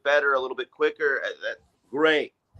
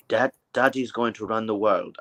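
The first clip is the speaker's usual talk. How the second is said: imitating Musk's son. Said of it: "I can't do his, his accent is bizarre".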